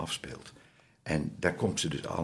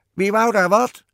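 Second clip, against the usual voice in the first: loud, high witch's demand; piercing storybook witch challenge; old witch; 13 dB louder than usual. A narrator's reading. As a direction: shout down like a cross old witch. Old witch head peers from tree.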